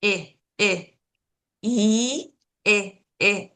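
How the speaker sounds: I said as a short, lax "ih"; short I with no smile; clipped "ih" for each I; short I sound. Shown as a demonstration. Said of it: "try to not smile".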